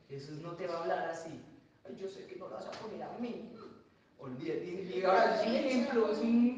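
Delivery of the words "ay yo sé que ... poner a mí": whiny guilt-trip. Retold or imitated. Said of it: "Yo reconozco ese tono de voz".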